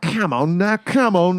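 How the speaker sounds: drawn-out Canadian "come on", rising; a light Canadian "come on, now"; Canadian accent "come on". Retold or imitated. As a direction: nag it like a Canadian mom. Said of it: "I do that one".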